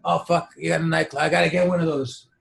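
mock awe, jumping up in pitch; impressed wannabe gangster. Wannabe gangster reacting to Scarface, impressed.

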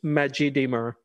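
Majidimir said with no H sound; H left silent. Shown as a demonstration. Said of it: "the H is not pronounced".

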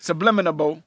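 "subliminal" as sub-LIM-in-uh-bul; extra syllable. Shown as a demonstration. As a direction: end "subliminal" with an added "-able". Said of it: "I like subliminal better".

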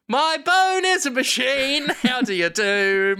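ordinary talk, nothing marked

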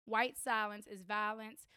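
low, slow and soft, reading out the sign; quiet retelling. Retold or imitated. Telling a friend about the protest sign, quiet and slow. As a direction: hush it out, word by word.

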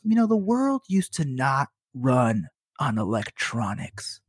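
slow, low grumble of a crotchety customer; lightly voiced grumpy old man, drawn out. Old customer complaining about the outage, crotchety. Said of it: "he's just a crotchety old man".

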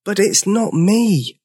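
high, slow little-dinosaur protest; plaintive tiny-voiced denial. A narrator's reading. Wrongly blamed dinosaur to George, protesting. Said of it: "protested Sizo".

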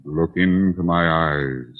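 slow, deliberate hypnotist voice, playfully put on; mock hypnotist. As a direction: draw her in like a stage hypnotist. Blackie mock-hypnotizing Mary.

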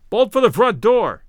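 loud, slow urgent call. A narrator's reading. Narrator calling to Larry during the retreat, loud urgent call. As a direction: shout it across the line. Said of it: "I called to Larry".

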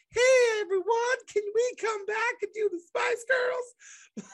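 hammed-up high desperate yell; desperate shout. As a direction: beg the group to take you back, yelling. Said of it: "when you're like".

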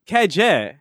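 imitating an odd New York accent on the initials; drawn vowels, New York impression; weird New York accent. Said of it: "weird New York, uh, accent".

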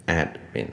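“admin”念成ad-min，d后不加母音; 念“admin”时d只轻轻带过; 两个音节. Shown as a demonstration. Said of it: "我会念". (“admin”的d不让喉咙振动)

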